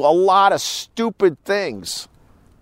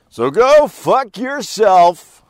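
angry; 5 semitones higher, 5 dB louder, much slower than usual. Real, not acted. Lashing out at critics.

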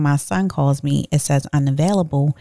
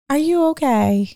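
incredulous high; 9 semitones higher than usual. Retold or imitated. Repeated question, incredulous.

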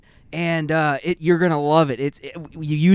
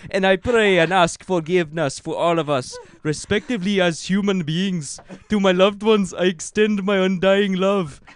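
louder, solemn grand proclamation; Avatar-style solemn voice; 4 dB louder than usual. Retold or imitated. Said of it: "Now you sound like one of the Avatar".

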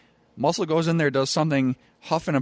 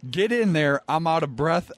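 higher-pitched insistent order; retold exasperation; 6 semitones higher than usual. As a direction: replay urging a tag partner in. Retold quarrel with tag partner.

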